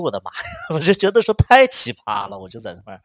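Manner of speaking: normal talking voice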